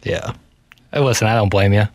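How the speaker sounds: usual speaking voice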